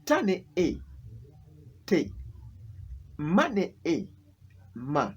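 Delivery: teacher sounding out "te" and "ma" after their letters; syllable spelling drill. Shown as a demonstration. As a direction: recite "tane e", blend to "te", then "Mane e" to "ma". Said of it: "I can give you another example".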